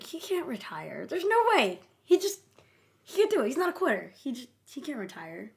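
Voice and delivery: high-pitched, disbelieving protest; acted-out denial. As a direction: imitate someone refusing to accept it, voice jumping up high. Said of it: "starts to go through the five stages of grief".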